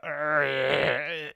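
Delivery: imitated growl of seething frustration; mock seething growl. Host imitates the DJ fuming behind her, mock seething growl. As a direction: growl like someone fuming in the background. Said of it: "this guy is seething in the background".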